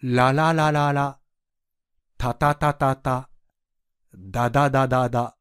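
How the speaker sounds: each syllable clearly repeated five times; syllable drill demo. Shown as a demonstration. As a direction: model the drill for learners to copy. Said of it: "どうぞ". (学習者と一緒に言う発音練習)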